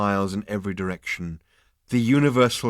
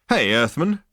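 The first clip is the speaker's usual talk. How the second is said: higher, louder teasing Zaphod; malicious grin; 6 semitones higher, 8 dB louder than usual. A narrator's reading. Zaphod needling Arthur with a malicious grin. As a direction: tease with a grin you can hear. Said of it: "with a malicious grin".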